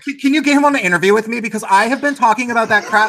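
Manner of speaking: fast, eager, excited rush. Real, not acted. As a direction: blurt it out eagerly.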